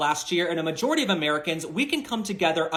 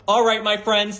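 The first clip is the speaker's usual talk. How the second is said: laughing; 3 semitones higher, 6 dB louder than usual. Real, not acted. Still laughing after joke.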